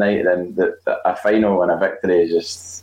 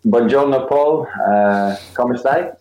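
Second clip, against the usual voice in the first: Italian greeting; 3 semitones higher, slower than usual. Pretend. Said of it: "that's about the extent of my Italian".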